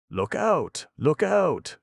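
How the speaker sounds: loud high shout of warning, climbing; alarmed warning. Acted. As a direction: yell it to stop him. Urgent warning to the ox.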